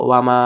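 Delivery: "মা" held long and even; "ওয়া মা" with a long final vowel; three-alif stretch. Shown as a demonstration. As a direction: draw out the vowel of "মা". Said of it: "তিন আলিফ টেনে পড়বো".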